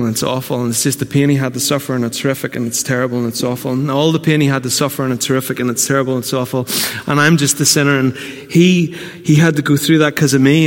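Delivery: half-hearted droning lament; imitating a gloomy churchgoer; mock-mournful believer. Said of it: "So why are we going".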